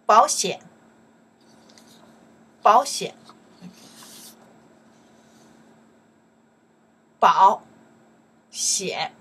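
over-articulated model words, loud and clear; slow, loud teaching model. Shown as a demonstration. Teacher drilling a class, loud and clear. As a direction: say each word out for students to repeat.

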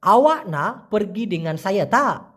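slow question with a drawn-out, pushed "তা". Shown as a demonstration. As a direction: push the final "তা" so it sounds like a question. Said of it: "তা বলতে গেলে একটা ধাক্কা মারবেন".

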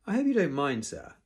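high, loud opening, dropping on sir; spat out. A narrator's reading. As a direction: spit it out with held-in anger. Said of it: "spat Snotlout".

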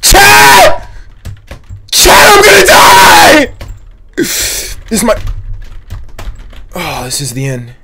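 high, shrill screaming for help; panicking gamer. Pretend. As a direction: wail like the end is near. About to die in game.

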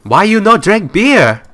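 loud, high, drawn-out mock Asian accent; mock Asian accent yell. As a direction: yell it slowly at a customer in a caricatured Asian accent. Mock accent yelling at game customers.

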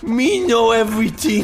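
high, broken dumb-guy talk; caveman voice. Acted. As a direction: grunt it like a caveman.

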